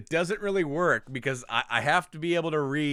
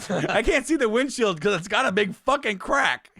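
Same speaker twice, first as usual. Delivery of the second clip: mock angry reading; 5 semitones higher than usual. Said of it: "he's angry reading this".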